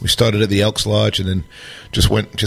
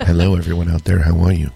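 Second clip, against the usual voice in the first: sultry radio voice; 4 semitones lower than usual. Acted. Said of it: "amazing, sultry radio voice".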